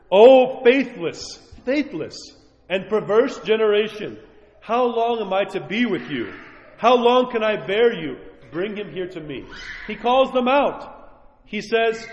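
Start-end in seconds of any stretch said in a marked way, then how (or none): 0.1-9.4 stern rebuke. Acted. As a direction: drag out O faithless, reproachful.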